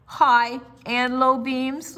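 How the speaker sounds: put-on slow, loud, eager child's question. A narrator's reading. Lucille eagerly asking her dad about the flashlight beams. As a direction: perk up with hope.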